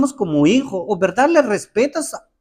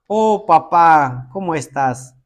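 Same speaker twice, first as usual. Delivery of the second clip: mock familiar; 5 semitones lower than usual. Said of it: "Así no se, no se escribe".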